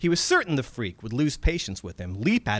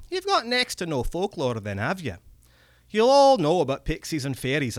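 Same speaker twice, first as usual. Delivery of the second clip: higher, wary goblin with a Scots lilt; a cagey old creature scolding the lad; old Scottish goblin; 3 semitones higher than usual. Acted. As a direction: goblin reproaching the young American. Red cap talking.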